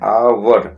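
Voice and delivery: "आवर" starting on the vowel, with no h sound; silent h. Shown as a demonstration. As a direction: show that the h is silent. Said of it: "एच नहीं पढ़ते हैं".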